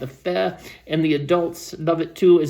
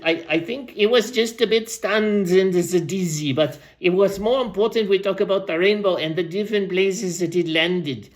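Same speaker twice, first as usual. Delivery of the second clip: lightly voiced rambling old storyteller; aging storyteller; 2 semitones higher than usual. Old storyteller tells the crowd about butterflies, lightly put-on voice. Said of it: "I'll go back to Random's voice".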